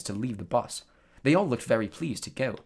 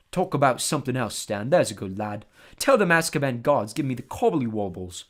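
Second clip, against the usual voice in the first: put-on uneasy old driver; 5 dB louder than usual. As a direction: ask to change topic nervously. Ernie shivers, asks to stop.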